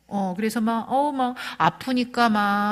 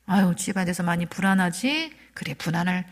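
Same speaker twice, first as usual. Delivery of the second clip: mildly soothing, understanding parent; gently validate the worry; acted empathy; 2 semitones lower than usual. Parent empathizing with a jobless child, mildly soothing. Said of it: "어떻게 공감해 주셔야".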